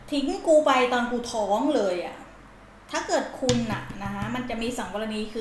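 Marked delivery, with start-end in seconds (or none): 0.1-2.2 louder, hurt and accusing; acted outburst. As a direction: blurt it out like a jilted lover. Acted jilted woman's outburst. (ตะโกนต่อว่าแบบแสดง)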